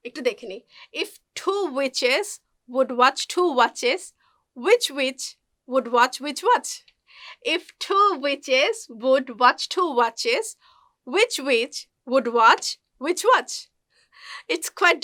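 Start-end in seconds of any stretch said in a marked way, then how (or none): 1.0-6.7 slow "witches" and "watches", each CH crisply released; very slow model of "watch which watch"; CH sound drill. Shown as a demonstration. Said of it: "চা সাউন্ডটা এখানে উচ্চারণ করবার প্র্যাকটিসটা". 7.5-13.5 slow "witches" and "watches", each CH crisply released; very slow model of "watch which watch"; CH sound drill. Shown as a demonstration. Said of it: "চা সাউন্ডটা এখানে উচ্চারণ করবার প্র্যাকটিসটা".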